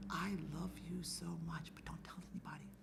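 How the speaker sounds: soft unvoiced whisper; whispering a secret to a daycare boy. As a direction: breathe it like a secret to a child. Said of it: "I whispered".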